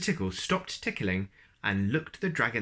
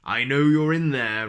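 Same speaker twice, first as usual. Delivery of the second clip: louder, higher dragon call; dragon rumbling; 4 semitones higher, 9 dB louder than usual. Acted. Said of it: "rumbled a very deep voice".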